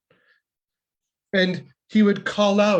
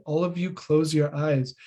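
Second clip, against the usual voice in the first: calm instruction. Retold or imitated. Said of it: "Krishna very calmly said".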